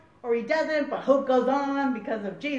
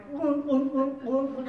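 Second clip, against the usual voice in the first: playful imitated "woom" noises; repeated teasing sound effect; mischievous dunking noise; slower than usual. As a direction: mimic a big brother's prank noise. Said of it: "like the mischievous older brother".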